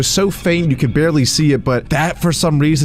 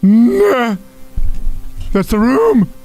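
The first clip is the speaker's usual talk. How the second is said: sudden high frightened shout; startled yell; 11 semitones higher, much slower than usual. Real, not acted. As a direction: jump and yell at the scary room. Startled shout at scary room.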